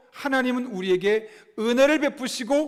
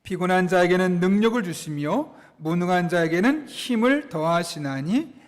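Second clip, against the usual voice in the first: slow, low, measured scripture reading; scripture read in unison; 4 semitones lower than usual. Real, not acted. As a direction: read it out evenly so a congregation can follow. Leads congregation reading scripture aloud.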